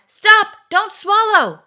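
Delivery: high, loud panicked yell; sudden yell. A narrator's reading. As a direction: stop her before she swallows. Moonface keeps yelling at Fanny.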